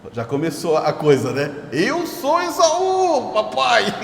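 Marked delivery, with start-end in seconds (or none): 1.7-3.9 high, slow sly put-on voice, cracking into a laugh; Jacob faking being Esaú. Jacob lies to blind Isaac, sly high voice. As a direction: play the cunning son lying to his blind father. Jacob deceiving his father.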